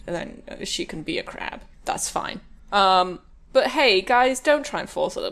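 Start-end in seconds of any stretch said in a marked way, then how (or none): 0.1-2.4 whispering. Real, not acted. Trailing off, unvoiced.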